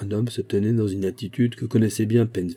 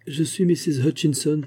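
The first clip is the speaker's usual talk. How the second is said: cry out; 7 semitones higher than usual. A narrator's reading. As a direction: blurt it out to set him straight. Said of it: "cria Dora". (s'écrier, plus aigu et plus fort)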